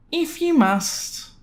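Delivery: very high, slow, sulky mock voice; sulky neighbor grudgingly agreeing, high and slow. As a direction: give in with a sulk. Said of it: "something like this".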